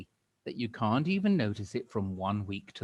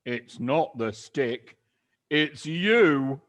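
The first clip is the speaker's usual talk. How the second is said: grinning horribly; 4 semitones higher, 9 dB louder, much slower than usual. Acted. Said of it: "grinning horribly".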